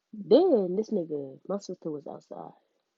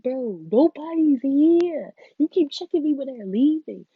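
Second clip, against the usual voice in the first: retold angry retort; 9 semitones higher, 10 dB louder, slower than usual. Retold confronting him outside.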